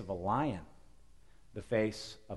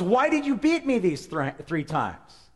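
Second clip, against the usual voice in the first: higher, louder donkey voice asking why; talking donkey; 5 semitones higher, 7 dB louder, slower than usual. Acted. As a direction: let the donkey complain. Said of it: "the donkey says".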